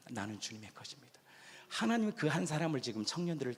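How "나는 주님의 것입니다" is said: much softer, almost breathless confession; hushed confession. Acted. Preacher hushes to voice the believer's confession. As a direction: drop to a hush and confess.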